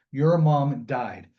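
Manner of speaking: slow, deadpan, emotionless delivery; flat, no emotion. Retold or imitated. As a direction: say it straight, without any feeling. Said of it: "no emotions on my face".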